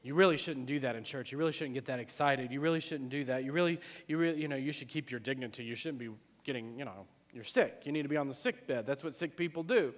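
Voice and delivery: a hint of hushed religious disapproval; mildly mocking, subdued scolding; mock church people. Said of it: "church people have the same thing".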